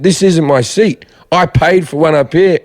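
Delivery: first-class attitude. Retold or imitated. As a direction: act out an entitled passenger objecting. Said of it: "I had this first class attitude".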